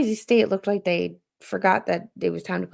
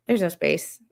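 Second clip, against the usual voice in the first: laughing. Real, not acted.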